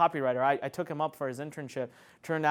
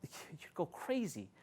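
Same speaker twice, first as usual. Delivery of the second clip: laughing; 12 dB quieter, much slower than usual. Real, not acted.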